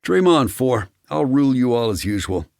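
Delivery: high, teasing hoot at a rival. A narrator's reading. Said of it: "Rick hooted from the back seat".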